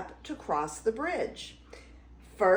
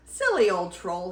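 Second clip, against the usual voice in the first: laughing; 2 semitones lower, faster than usual. Acted. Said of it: "he laughed".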